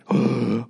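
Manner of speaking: crowd gasp. Retold or imitated. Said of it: "And the whole crowd went".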